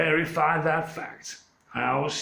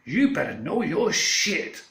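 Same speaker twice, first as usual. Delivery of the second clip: defiant warning; 3 semitones higher, slower than usual. Retold or imitated. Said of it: "and said to them all".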